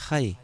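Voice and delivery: "Hi" with a rough throaty h; learner's "Hi", heavy h; accented hi. Retold or imitated. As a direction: scrape the h of "Hi" like a Spanish j. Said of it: "but hi".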